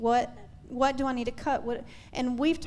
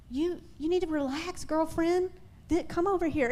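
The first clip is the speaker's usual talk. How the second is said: a light, lovingly voiced Jesus, slightly higher; loving, gentle Jesus; 5 semitones higher than usual. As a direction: gently coax Martha to rest. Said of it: "Jesus looks so lovingly at Martha".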